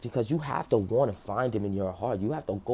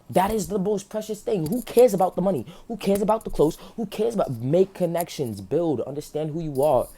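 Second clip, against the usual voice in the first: passionate; 6 semitones higher than usual. Real, not acted. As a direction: preach it with rising fervour. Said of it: "I'm just very passionate".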